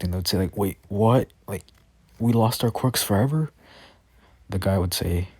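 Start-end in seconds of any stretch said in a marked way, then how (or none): 0.6-3.5 mildly shocked, rising disbelieving question; a touch of stunned disbelief, higher at the end. Acted. Men learn their quirks are gone for good, mildly shocked. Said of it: "all of them would be shocked".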